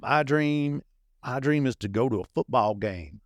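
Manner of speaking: a hint of a Southern dreamer; Southern accent. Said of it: "all my dreamers have Southern accents".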